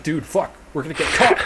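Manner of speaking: high-pitched mock panic; imitating not chill. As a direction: play the friend losing his cool. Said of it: "like, not chill".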